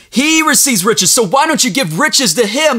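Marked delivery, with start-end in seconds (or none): 0.1-1.1 higher, stressing HE; preacher lifting the repeat higher; lifted repeat. Shown as a demonstration. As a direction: raise it up and hit HE.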